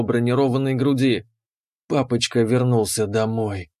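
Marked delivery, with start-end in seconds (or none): 1.9-3.7 breathy and smiling. Acted. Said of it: "Выдохнула она с улыбкой".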